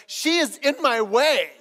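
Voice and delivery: high, loud complaining player; whiny complaint. Retold or imitated. Player blaming opponent to coach, high mock whine. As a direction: protest like a frustrated teen.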